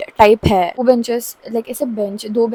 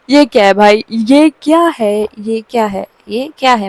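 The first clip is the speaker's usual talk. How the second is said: louder, bewildered repeated question; shocked friend; 6 dB louder than usual. Retold or imitated. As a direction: gape at the picture in disbelief.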